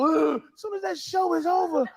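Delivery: mock dieter voice; mock contestant whine. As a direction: sneer at the dieters. Mocking fat show contestants.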